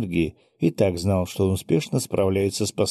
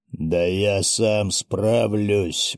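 slow, grumbling reply; much slower than usual. Acted. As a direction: grumble it out slowly. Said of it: "буркнул".

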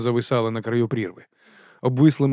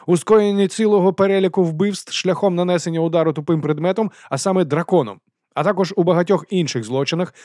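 higher, louder earnest recitation; Carrot reading rights; 6 semitones higher, 4 dB louder than usual. A narrator's reading. Морква зачитує права Вонсу, урочисто. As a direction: read the rights by the book.

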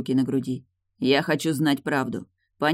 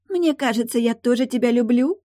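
much higher squeaky parody of "Мне кажется"; squeaky mocking voice; 10 semitones higher, 4 dB louder than usual. Tilda parodies Morton's confession in a squeaky mocking voice. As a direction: squeak it like a silly lovestruck girl. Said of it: "писклявым голосом произнесла Тильда".

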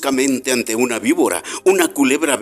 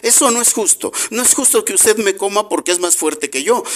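high, insistent little bee crying out against injustice; indignant bee protest; 7 semitones higher than usual. A narrator's reading. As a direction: protest it's not fair, the small bee pleading. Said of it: "exclamó entonces".

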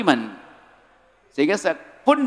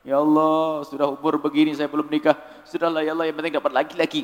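desperate spinster prayer; 3 semitones lower than usual. Retold or imitated. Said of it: "ini orang putus asa ini".

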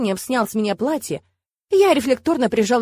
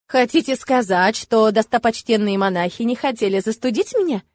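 mildly theatrical mock horror; a touch of staged dismay. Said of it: "Театрально ужаснулась я".

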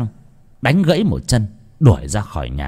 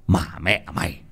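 yelling; 8 semitones higher than usual. Acted. Landlord raging at servant over the broken teapot, furious yelling. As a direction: roar at the boy over the heirloom. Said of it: "tiếng của Chánh Đẩm quát tháo".

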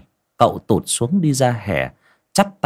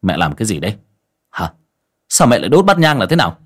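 son snapping at his mother, faster and louder at the end; angry scolding; 5 dB louder, faster than usual. Acted. Son scolding his old mother over the burnt incense bowl, angry shout. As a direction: bark at her, demanding answers. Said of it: "gườm gườm bà cụ mà quát".

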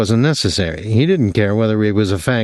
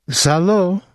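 amiable; 9 semitones higher than usual. A narrator's reading. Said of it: "the woman said amiably".

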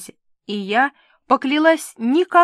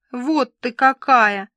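whining; 3 semitones higher, 5 dB louder, slower than usual. Acted. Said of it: "заныла Милка".

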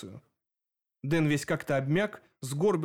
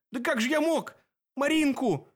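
sobbing out; 11 semitones higher than usual. A narrator's reading. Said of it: "всхлипнул Костолом".

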